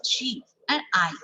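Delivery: SHE said with force, AND kept light; stressed SHE before an unstressed AND. Shown as a demonstration. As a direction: lean on SHE and ease off AND. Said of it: "we are pronouncing with force".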